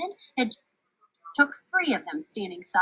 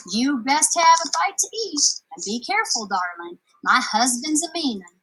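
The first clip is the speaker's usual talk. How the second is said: louder, motherly warning; giantess warning; 5 semitones higher, 5 dB louder than usual. Acted. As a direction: care mixed with worry. Giantess warns girl.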